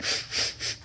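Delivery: one mock teary sniff; a quick fake-crying sniff; imitated single sniff. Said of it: "that one sniff".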